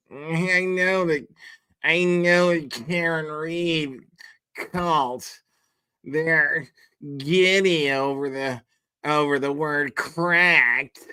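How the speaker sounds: slow, drawn-out mock delivery with halting pauses; mocking Kate Peter. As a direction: drag each phrase out to poke fun at how she talks. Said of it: "why does she talk like".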